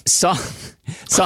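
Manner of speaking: high, rough monster growl; Cookie Monster voice. Pretend. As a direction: gobble the words like a hungry monster. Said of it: "our Cookie Monster show".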